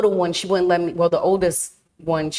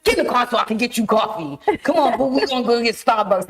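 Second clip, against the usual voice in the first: aggressive friend; 4 semitones higher than usual. Retold or imitated. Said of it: "she aggressive as hell".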